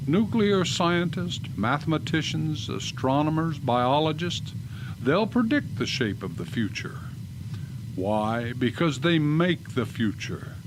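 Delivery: measured, ominous storyteller; old-time sci-fi narrator; radio drama narration. Acted. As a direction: draw listeners into the future, deliberately.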